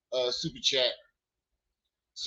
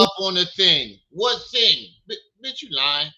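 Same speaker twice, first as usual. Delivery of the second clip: incredulous; 3 dB louder than usual. Real, not acted. Mocking the accuser's vague claim.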